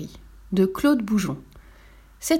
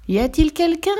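small, polite call into a hole, pitched higher; politely asking who is there, voice raised high; polite question; 8 semitones higher, 4 dB louder than usual. A narrator's reading. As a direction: ask politely, a little timid frog. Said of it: "demanda-t-elle poliment".

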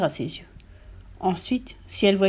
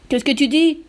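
high, loud outraged question; hurlement du mari; 6 semitones higher, 6 dB louder than usual. A narrator's reading. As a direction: yell at your wife in disbelief. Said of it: "hurla le mari". (question hurlée, outrée)

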